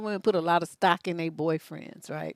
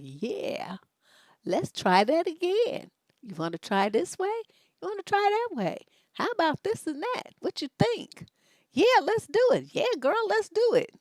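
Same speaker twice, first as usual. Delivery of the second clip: much higher, eager, agreeable voice; eager Aries man; 10 semitones higher than usual. Retold or imitated. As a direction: play the keen lover, pitched way up. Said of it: "They just be like".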